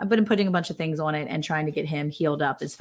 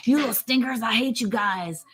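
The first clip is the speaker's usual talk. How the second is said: mock-angry piglet; 4 semitones higher than usual. Owner voices piglet mad at the family, mock anger. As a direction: playfully voice a cross little pig cursing everyone. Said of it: "I know he's just angry".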